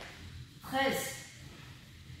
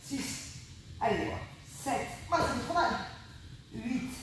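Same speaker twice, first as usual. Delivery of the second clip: straining through ab crunches; counting while working the abs; doing ab exercises; 5 dB quieter than usual. Real, not acted. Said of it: "Moi aussi, je souffre".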